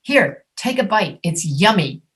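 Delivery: lightly acted parent offering food, yummy stressed; a hint of a parent feeding a child; parent coaxing a child. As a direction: coax a child to try a bite. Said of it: "what parents say to their children".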